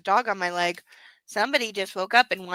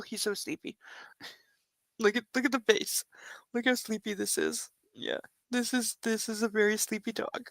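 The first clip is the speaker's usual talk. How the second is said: hushed cooing; 7 dB quieter than usual. Real, not acted. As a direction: coo quietly at the sleepy dog. Softly cooing at sleepy dog.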